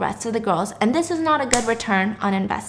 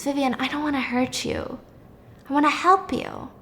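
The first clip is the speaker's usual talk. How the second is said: hushed, gentle coaxing; soft-spoken; 3 semitones higher, 6 dB quieter than usual. Retold or imitated. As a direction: coax her quietly. Doctor speaks softly.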